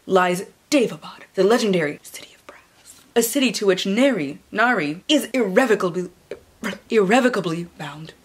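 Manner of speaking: hushed, ominous blurb read; dramatic reading. Acted. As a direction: read it like a fantasy trailer.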